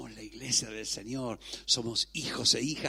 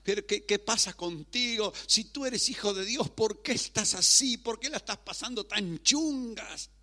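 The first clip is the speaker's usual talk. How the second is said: questioning onlookers; 8 semitones higher than usual. Acted. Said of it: "la gente puede empezar a mirarte y decir".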